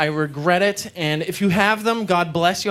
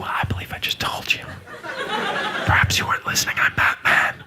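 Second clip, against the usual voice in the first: Batman voice. Pretend. Batman voice continuing.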